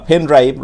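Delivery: "পেন drive" with the P puffed like ফ; aspirated P. Retold or imitated. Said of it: "পিটাকে তারা ফয়ের মতো করে". (প-কে ফ-এর মতো করে "পেন ড্রাইভ")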